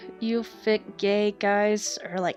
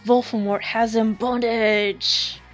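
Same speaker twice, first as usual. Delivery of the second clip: urgent; 2 semitones higher, 5 dB louder than usual. Acted. Urgent vision report.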